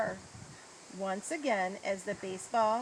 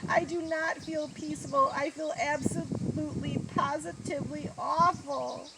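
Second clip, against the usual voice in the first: mildly wailing, raised voice; upset confession; 5 semitones higher, 4 dB louder than usual. Acted. Boyd admits his guilt to Coach, upset. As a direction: pour it out, higher and louder.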